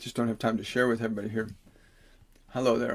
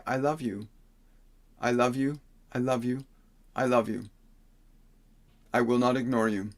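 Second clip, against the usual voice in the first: said like you mean it; 3 dB quieter than usual. Shown as a demonstration. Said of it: "think it in a tone of voice that sounds like you mean it".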